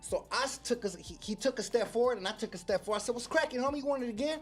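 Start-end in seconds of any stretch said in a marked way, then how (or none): 3.1-4.4 retold challenge.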